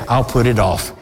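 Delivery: a touch of a defensive procrastinator; procrastinator's brush-off. Retold or imitated. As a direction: lightly play someone waving God off. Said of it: "You'll say, you will procrastinate".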